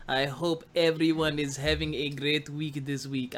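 put-on slow, measured Wakandan accent. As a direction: greet listeners in a drawn-out Wakandan accent. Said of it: "I don't know why I did the accent".

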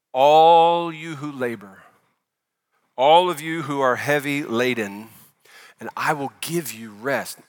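tender reading. Acted. Preacher reads Jesus' invitation slowly.

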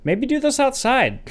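high, loud, drawn-out suggestion; slow, high-pitched yell of alarm; exasperated shout. Acted. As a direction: call it out at the screen. Calling out to the film's character.

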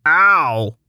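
pained groggy groan. A narrator's reading. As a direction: groan it out, half awake. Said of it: "groaned groggily".

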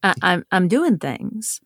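demonstrating her Southern accent. Shown as a demonstration. Author showing interviewers her store voice, Southern accent. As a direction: slip into an easy Southern accent. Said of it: "when I'm talking like this".

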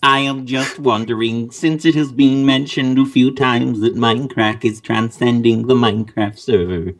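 monotone robot reading a question. Pretend. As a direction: read it like a droning machine. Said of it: "Dude, robotic voice".

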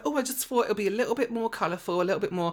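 high-pitched imitation of the girl; mimicked excuse. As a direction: make her excuse in a high mock voice. Retelling the girl's excuse.

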